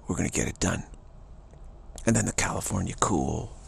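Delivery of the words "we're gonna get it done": real confidence. Acted. Texan declaring toughness, quietly confident. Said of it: "real confidence".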